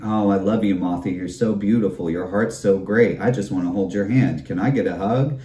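a light hammed-up crush voice; mock lovesick fan. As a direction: coo it like a smitten stranger. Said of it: "send me numerous text messages saying".

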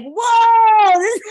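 high, loud astonished whoa; stunned whoa. Retold or imitated. Retelling her shock when her brother apologized, loud high whoa. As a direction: let the whoa burst out in wonder. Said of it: "then I was like".

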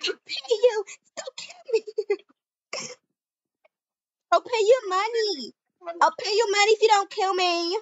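mock pleading. Rich girl begs for her life.

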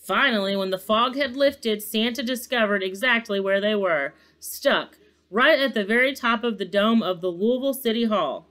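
animated storybook reading; story narration. A narrator's reading. Narrator follows the sleigh's night flight, story narration. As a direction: read it aloud with measured drama.

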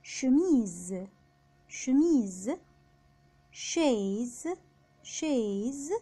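"شميز" and "شيز" opening on French sh; drawn-out "شيز", chaise, starting sh. Shown as a demonstration. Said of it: "بيتنطق شين".

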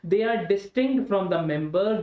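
very slow, each word spaced; slow dictation. Shown as a demonstration. Teacher dictating to the class, very slow. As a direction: spell it out for note-taking. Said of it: "dictating definition".

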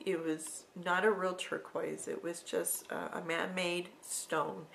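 ordinary talk

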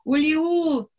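high shrill cry like a wild creature; wild shriek. Acted. Femeia strigă ca o vietate sălbatică. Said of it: "țipă ca o vietate sălbatică".

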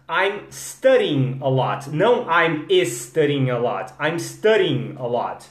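I'm studying a lot. repeated slowly. Shown as a demonstration. Teacher drilling students in slow repetition. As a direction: keep saying it slowly for them to copy. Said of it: "Arrumar a sua pronúncia".

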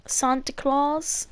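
"Santa Claus" slowed, as SAHN-tuh; Spanish pronunciation. Shown as a demonstration. Showing a friend the carol's word, "Santa Claus" said slowly as SAHN-tuh. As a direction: open "ah" in "Santa", drawn out. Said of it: "that's how they pronounce it".

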